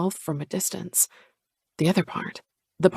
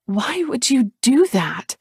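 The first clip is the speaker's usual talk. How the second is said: demanding; 5 semitones higher, slower than usual. Acted. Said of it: "I demand".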